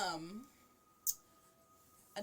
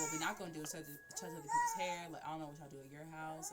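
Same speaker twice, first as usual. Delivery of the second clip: mock snippy friend; 4 dB louder than usual. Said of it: "You say to me".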